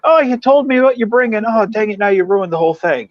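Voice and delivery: high, put-on whiny complaint; mock whiny relative. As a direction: whine like a spoiled relative at a potluck. Mock family member at potluck.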